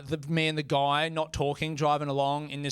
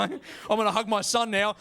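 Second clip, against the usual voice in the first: raised voice, lightly hammed bracing; psyched-up weightlifter; 4 semitones higher than usual. Dad readies himself to hug son, mock weightlifter strain. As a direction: announce it as if before a heavy lift. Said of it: "like a weightlifter".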